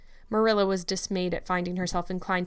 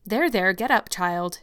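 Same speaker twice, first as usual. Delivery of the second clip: put-on a hearty neighbour lifting the child up, a little louder; hearty comfort; 5 dB louder than usual. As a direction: comfort her briskly and heartily. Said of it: "she said heartily".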